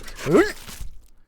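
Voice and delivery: high burst of laughter; loud laugh. Real, not acted. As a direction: crack up loudly. Laughs after taunt.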